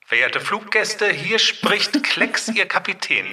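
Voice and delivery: high, slow captain's cabin announcement; pilot announcement. Pretend. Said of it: "das könnte Klecks gestern gewesen sein".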